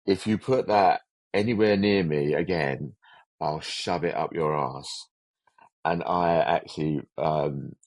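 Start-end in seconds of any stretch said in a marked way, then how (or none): 0.1-5.1 slow, deliberate retold threat; annoyed threat. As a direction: imitate an annoyed man's warning, spacing out the words. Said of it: "he could go Scottish when he got annoyed".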